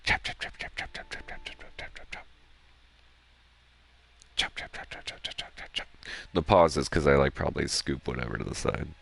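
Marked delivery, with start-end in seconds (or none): 0.0-4.6 steady unvoiced chop chop chop, fading softer; whispered chopping that dies away; chopping sounds. Shown as a demonstration. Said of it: "No, it's more like". 4.6-5.9 soft unvoiced chop chop chop, fading out; quiet chopping noises trailing off; chopping sounds. Shown as a demonstration. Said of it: "No, it's more like".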